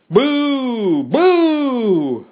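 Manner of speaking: high, drawn-out booing; crowd clamor. A narrator's reading. Mob jeers the professor's speech, clamorous long boos. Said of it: "The clamor was general and immediate".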